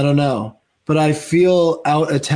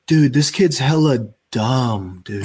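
friend's verdict; 2 semitones lower, slower than usual. Retold or imitated. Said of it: "he's like".

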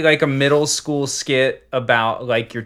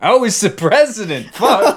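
high president voice; 9 semitones higher, 6 dB louder than usual. Retold or imitated. Acted phone call.

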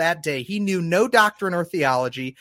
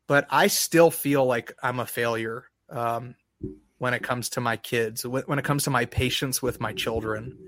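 getting emotional; 4 semitones lower, 3 dB quieter than usual. Real, not acted. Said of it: "I'm getting emotional".

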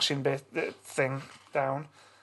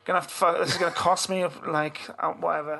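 sarcastic grumbling; 3 semitones higher than usual. Retold or imitated. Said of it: "saying all kinds of things like".

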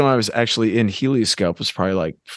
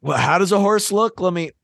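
put-on high, slow, puzzled old-timer; musing like a lost old cartoonist; clueless old artist; 5 semitones higher, slower than usual. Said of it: "just like".

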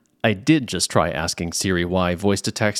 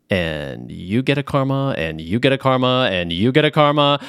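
mock giveaway; 2 semitones higher than usual. Callback to Oprah giveaway bit.

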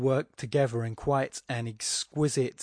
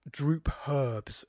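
DROOP, HERBS, slow and both weighted; two equal stresses; 2 semitones higher than usual. Shown as a demonstration. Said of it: "two stressed syllables".

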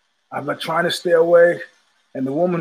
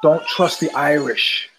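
conspiratorial warning; 3 semitones lower, slower than usual. Retold or imitated. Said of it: "looking around conspiratorially".

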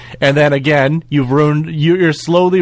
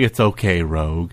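lower, softening toward the end; mild mock reassurance; 7 semitones lower, 5 dB quieter than usual. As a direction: imitate gently comforting someone. Comforting Rogue, touching her hand.

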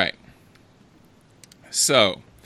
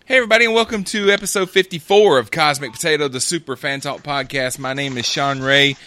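radio voice; 3 semitones higher, 4 dB louder than usual. Real, not acted. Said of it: "They say I start doing my radio voice".

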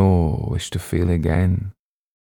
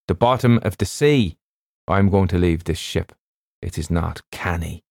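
foreboding doctor, dropping away at the end; ship's doctor, ominous. Acted. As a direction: play the doctor giving a grim warning. Narrator voices the doctor.

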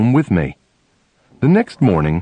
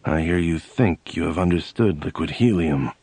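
gruff voice; 5 semitones lower, 6 dB quieter than usual. Retold or imitated. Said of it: "he said in a gruff voice".

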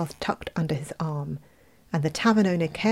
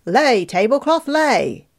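loud magic command, higher; calling out; 5 semitones higher, 5 dB louder, slower than usual. A narrator's reading. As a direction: call the spell out to the tablecloth. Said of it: "called to it".

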